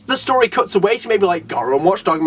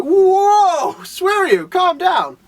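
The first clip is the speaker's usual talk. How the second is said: startled reaction; 11 semitones higher, much slower than usual. Retold or imitated. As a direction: jump up in pitch, caught off guard. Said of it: "I'm like".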